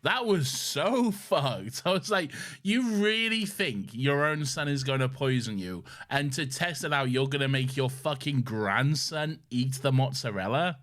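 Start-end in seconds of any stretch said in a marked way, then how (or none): 2.6-10.8 incredulous outrage. Retold or imitated. Retelling own outraged reaction to scene.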